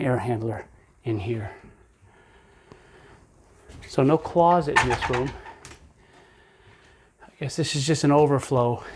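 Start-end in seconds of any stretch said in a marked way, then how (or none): 3.9-8.8 winded from the stairs; a bit breathless after climbing; out of breath. Real, not acted. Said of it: "I'm winded from walking up the stairs".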